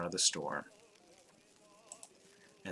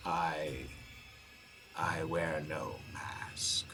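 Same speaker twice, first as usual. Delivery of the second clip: slow reply; 4 dB quieter, much slower than usual. A narrator's reading. The unmasked figure replies slowly.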